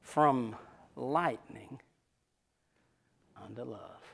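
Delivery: hushed sermon closing; soft closing. Acted. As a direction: let the last words fall away gently.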